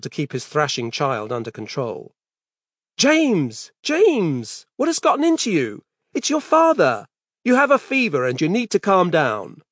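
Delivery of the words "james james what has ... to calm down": high, strained shouting; desperate yelling. Acted. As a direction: cry out while struggling. Wrestling thrashing son.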